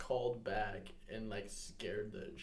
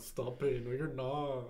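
put-on crying little kid; 4 semitones higher, 5 dB louder, slower than usual. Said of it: "That's how he would talk".

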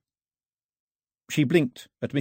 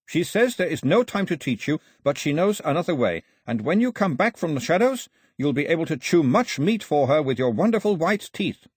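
put-on higher, earnest young translator voice; Carley's voice; 6 semitones higher, 3 dB louder than usual. A narrator's reading. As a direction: voice Carley relaying the old woman's words.

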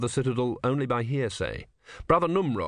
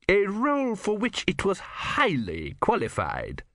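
sharp; 9 semitones higher than usual. A narrator's reading. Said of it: "said Vorbis sharply".

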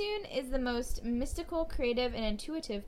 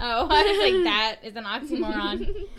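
laughing; 8 dB louder than usual. Real, not acted. Laughing at a misheard word.

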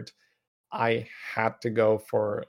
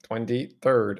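robot voice; slower than usual. Retold or imitated. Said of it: "like a robot voice".

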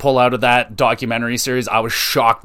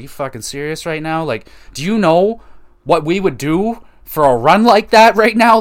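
jealous disbelief; 4 semitones higher, 4 dB louder than usual. Retold or imitated. Leafs fans shouting at the Rangers' quick success, building outburst. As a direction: start muttering, end yelling in envy.

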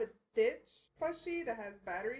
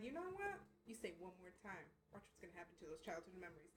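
threatening; 3 semitones lower, 13 dB quieter than usual. Retold or imitated. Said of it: "I'm like".

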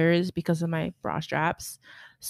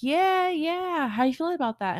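much higher, easygoing yeah yeah; breezy surgeon; 9 semitones higher than usual. Retold or imitated. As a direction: play the laid-back doctor, high.

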